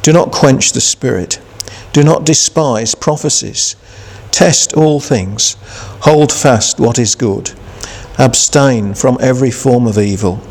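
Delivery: measured, deliberate Bible reading; scripture reading. Acted. Preacher reading Thessalonians to the congregation, measured and solemn. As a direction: read the epistle with solemn care.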